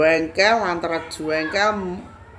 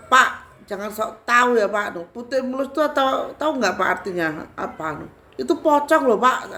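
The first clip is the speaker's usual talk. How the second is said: raised, scolding retort to an onlooker; bentakan; 6 semitones higher, 4 dB louder than usual. Retold or imitated. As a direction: scold the know-it-all, climbing high and loud at the end. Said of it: "Saya bentak aja tuh orang". (membentak orang sok tahu, nada naik)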